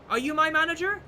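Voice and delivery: high sarcastic put-down; mock him with a high, loud jab. Manager mocking customer.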